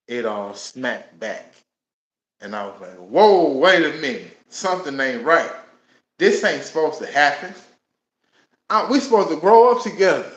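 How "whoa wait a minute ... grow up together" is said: rising, louder and higher, reliving the fury at the loss; half-acted grief turning into anger, climbing in pitch; retold angry outburst. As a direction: build from shocked disbelief to an angry demand. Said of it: "I'm getting angry, I'm getting mad".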